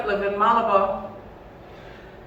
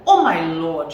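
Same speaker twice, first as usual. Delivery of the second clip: moaning; 3 semitones lower, 6 dB louder than usual. Acted. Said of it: "she moaned".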